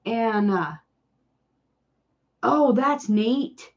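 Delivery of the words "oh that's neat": usual speaking voice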